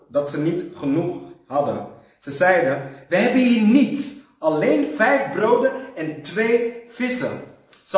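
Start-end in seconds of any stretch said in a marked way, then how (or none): 3.1-7.4 loud worried disciples. Acted. Disciples voiced in Bible story.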